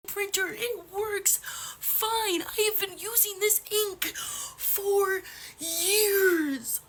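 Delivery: tearful and slow, near a whisper; slow tearful protest; crying. Real, not acted. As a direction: choke the words out through tears. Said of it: "I may be crying right now".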